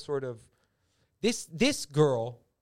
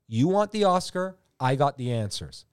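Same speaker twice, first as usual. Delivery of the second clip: loud pitch; 7 dB louder than usual. Shown as a demonstration. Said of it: "I'm gonna say it again".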